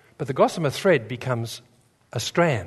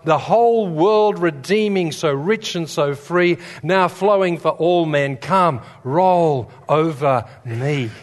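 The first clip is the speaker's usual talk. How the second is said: solemn hymn recitation; 3 semitones higher, slower than usual. Acted. Preacher recites William Booth's hymn, slow solemn intoning.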